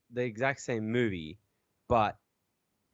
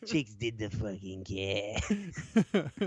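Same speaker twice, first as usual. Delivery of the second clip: put-on Boston accent; much slower than usual. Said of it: "Boston accent for Robin".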